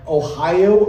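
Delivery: slow Ohio accent, drawn out. Shown as a demonstration. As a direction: stretch Ohio in a Midwest accent. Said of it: "they speak in platitudes".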